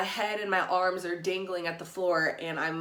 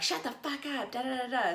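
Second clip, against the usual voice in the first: higher, mock yell trailing into da da; retold angry snap; 7 semitones higher than usual. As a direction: imitate her brushing you off. Woman yells again while dousing.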